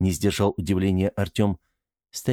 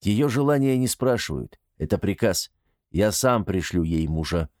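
stern, hard command; harsh. Acted. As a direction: lay down the order harshly. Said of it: "жёстко произнёс Артём".

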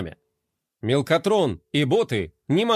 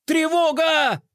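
much higher shrill alarm yell; 13 semitones higher, slower than usual. A narrator's reading. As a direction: sound the alarm in a panic. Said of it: "завопил Мелкотрон". (пронзительный вопль тревоги)

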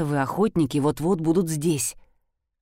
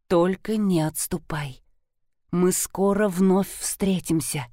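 velvety voice; 2 semitones lower than usual. Acted. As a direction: soothe her, unhurried. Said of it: "бархатный голос Сакри".

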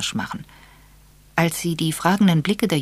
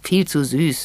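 gruff; 2 semitones higher, 4 dB louder than usual. Acted. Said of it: "erklärte Edward unwirsch".

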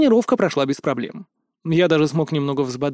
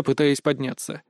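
usual speaking voice

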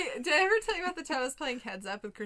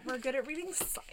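whisper; 9 dB quieter than usual. Real, not acted. Deadpan joke aside.

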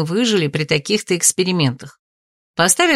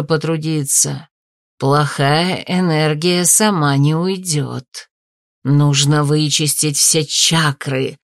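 mystic healer; 3 semitones lower, slower than usual. A narrator's reading. Mock healer's sermon.

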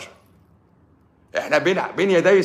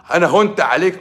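mock hurt wife; 5 semitones higher, 4 dB louder than usual. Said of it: "تقوم جيلها بقى كده الرعشة".

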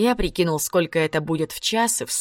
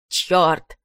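выругался. A narrator's reading. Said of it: "выругался он".

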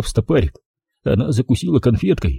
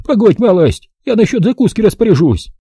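put-on higher, brisk old-woman voice; old village granny; 10 semitones higher than usual. Old granny greeting the city visitor, high old-woman voice. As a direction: voice the feisty village grandmother.

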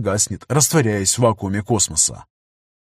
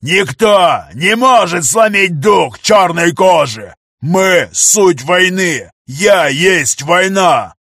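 slow, higher full-throated war cry; shouting; 6 semitones higher, 6 dB louder, much slower than usual. Acted. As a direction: bellow each word like a battle oath. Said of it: "Негр продолжал орать".

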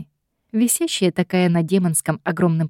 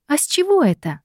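indignant question; 9 semitones higher than usual. A narrator's reading. Heroine objects.

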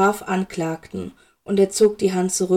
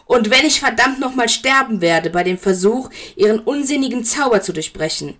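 angry outburst; 3 semitones higher than usual. Acted. Severus rages in acted quarrel.

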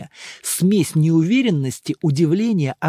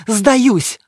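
higher, louder playful surrender; giving up; 5 semitones higher, 6 dB louder than usual. A narrator's reading. Emma giving up the guessing game, playful surrender. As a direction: throw up your hands and give up. Emma gives up, raising hands.

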